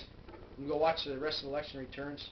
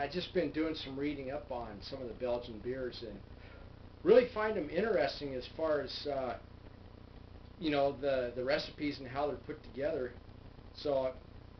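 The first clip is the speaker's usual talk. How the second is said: muffled through fingertips; speaking with fingers on lips. Real, not acted. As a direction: hand partly covering mouth. Seen 0: fingertips rest on lower lip through most labelled speech.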